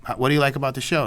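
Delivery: jumps high on oh really, then eases down; mock surprised interest. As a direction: play up the amazement at the kid. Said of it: "And he goes".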